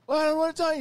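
very high, loud hammed-up terror; panicked whine. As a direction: wail it like he's sure he'll drown. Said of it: "And he's like".

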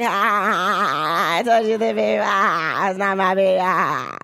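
lightly voiced happy guy; mock relieved dad. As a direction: gloat while dancing. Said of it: "doing his little dance like".

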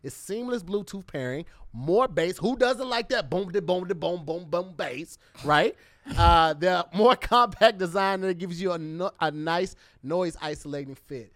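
upbeat sponsor read. Acted. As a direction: sell the earbuds, host style. Reads a sponsor ad.

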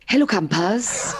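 slow gravelly camp-host greeting; Heidi hi impression. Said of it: "Can I do my Heidi hi impression?".

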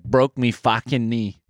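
slow mock-Aussie reading; drawn-out Aussie complaint; Australian accent. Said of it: "trying to do Australian".

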